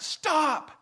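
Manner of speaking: high, loud acted yell; alarmed shout. Woman running into the room to intervene, shouting. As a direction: shout to halt someone instantly. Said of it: "ran in the room and was like".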